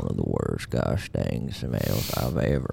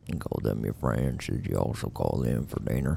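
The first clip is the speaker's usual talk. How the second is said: cowboy voice. Acted. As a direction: play an old ranch hand, easy and dry. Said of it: "my cowboy voice is on point".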